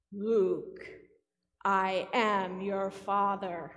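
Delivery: low, loud, slow villain voice; Darth Vader. Acted. Preacher leads congregation in the famous film line, Darth Vader voice. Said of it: "in your best Darth Vader voice".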